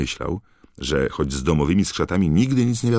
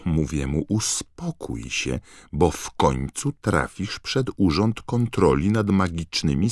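a fussy elf lecturing Dobby; high indignant elf nagging; scolding house-elf; 3 semitones higher than usual. Acted. Voices Winky scolding Dobby.

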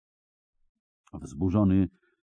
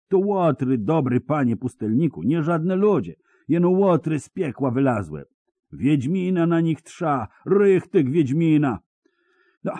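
high, rustic peasant voice full of dread; a scared villager pouring out his news; frightened peasant; 6 semitones higher, 5 dB louder than usual. Acted. Peasant to hermit about the Dundar bandits, high and fearful. Peasant insists witcher needed.

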